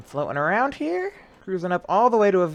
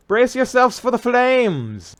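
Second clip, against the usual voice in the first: dramatic warning; 9 semitones higher, 5 dB louder, slower than usual. Acted. Warning crew before re-entry.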